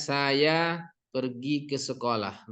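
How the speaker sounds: "Saya pergi ke sekolah" slowly, on an even tone; flat statement tone. Shown as a demonstration. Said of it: "nadanya datar biasanya". ("Saya pergi ke sekolah" dengan nada datar)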